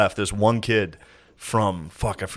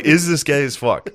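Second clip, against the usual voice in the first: higher-pitched, amused disbelief; mock incredulous question; 4 semitones higher than usual. Retelling own question to the show, amused incredulity. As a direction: ask it outright, pitched up. Repeats the doubt, more firmly.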